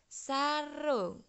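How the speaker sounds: "sarung" said with its u close to o, like "sarong"; teacher sounds out "sarung" with the u toward o; Javanese u as o. Shown as a demonstration. Teacher showing pupils the u miring in "sarung". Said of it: "membacanya u-nya seakan-akan o".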